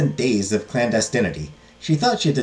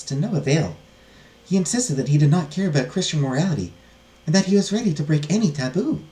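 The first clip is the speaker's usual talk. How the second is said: higher, restrained heroine voice; distressed heiress; 6 semitones higher than usual. Acted. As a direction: confide it gravely, voice lifted. Heiress tells her story.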